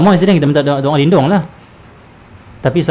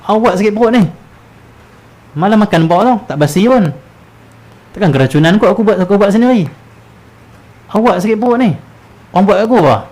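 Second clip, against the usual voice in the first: anxious, whiny voice, much higher and louder; fretful complainer; 8 semitones higher, 4 dB louder than usual. Retold or imitated. Preacher mimics a man blaming others for his stomach ache, fretful. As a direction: fuss over who caused the stomach ache. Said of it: "dia cari punca".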